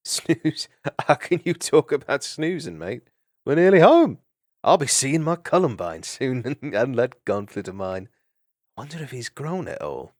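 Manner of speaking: bright laughing banter, chuckling through it; a cheerful rogue teasing his friend; cheeky mouse voice with laughs; cheery mouse thief. Acted. Gonf cheery character voice.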